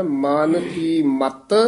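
slow ਮਨ ਕੀ ਮਤ, then stop; deliberate teaching read, pause following ਮਤ; pause after phrase. Shown as a demonstration. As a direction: keep ਮਨ ਕੀ ਮਤ together and break after ਮਤ. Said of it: "ਇੱਥੇ ਵਿਸਰਾਮ".

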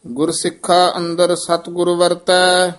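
measured, even-toned Gurbani reading; scripture recitation. Acted. Reciter reads Gurbani verses for learners, measured recitation. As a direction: recite on a level, sustained tone.

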